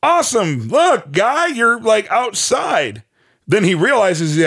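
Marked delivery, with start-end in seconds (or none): 0.0-3.0 bad Jimmy accent. Imitating Jimmy cheerfully greeting his brother, in a high hammed-up bad accent. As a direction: squeal his name like a cartoonish bad accent. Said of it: "in a really bad accent that I just did".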